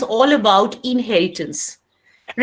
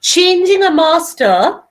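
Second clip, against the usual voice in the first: dictation pace. Shown as a demonstration. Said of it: "start writing".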